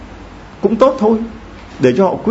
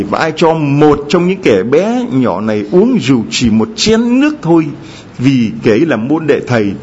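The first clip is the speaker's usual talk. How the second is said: raised, measured scripture quotation; Gospel recitation; 3 semitones higher than usual. Acted. Priest quoting Jesus from today's Gospel, solemn recitation. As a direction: recite it as sacred words to the congregation.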